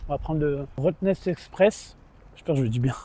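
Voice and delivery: lisping around chewing gum. Real, not acted. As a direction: talk with gum in your mouth, lisping. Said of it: "On dirait que je zozote, j'ai un chewing-gum". (zozote avec un chewing-gum)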